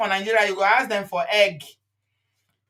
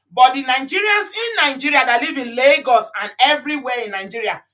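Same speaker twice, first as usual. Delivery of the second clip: loud emphatic rant; 3 semitones higher, 4 dB louder than usual. Real, not acted. Heated rant about Nigerians.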